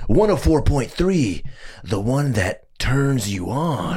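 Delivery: radio host voice. Retold or imitated. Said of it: "what he's saying is".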